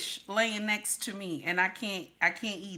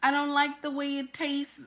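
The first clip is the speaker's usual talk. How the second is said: higher whiny put-on wife; mock squeamish wife; 4 semitones higher than usual. Mocking a picky wife, higher and whiny. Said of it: "don't get in there and say".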